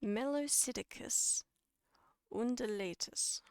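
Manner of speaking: Melopsittacus undulatus in two measured parts, pause between; careful breakdown. Shown as a demonstration. Teacher redoing the scientific name for viewers, careful breakdown. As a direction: sound out Melopsittacus, pause, then undulatus, each falling at the end. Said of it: "to slow it down, to break it down".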